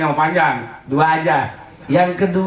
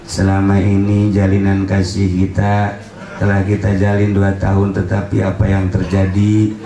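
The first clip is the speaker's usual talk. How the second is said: melodramatic breakup message; 11 semitones lower than usual. Pretend. Girlfriend's breakup SMS to Bang Munir, hammed-up heartbreak. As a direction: ham up a tearful farewell text. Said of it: "pas baca S M S".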